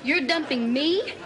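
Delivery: indignant disbelief. Acted. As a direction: react in disbelief at being dumped. Being dumped over her accent.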